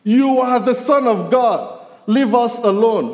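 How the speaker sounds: high, slow, loud cry of the demons. Retold or imitated. Preacher voices the demons shouting at Jesus, loud and high. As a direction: cry it out high and drawn out, like a possessed man. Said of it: "they cried out in a loud voice".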